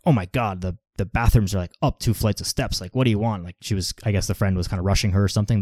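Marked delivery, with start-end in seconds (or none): 0.1-3.4 mild retold snap. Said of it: "kinda snapped a little bit".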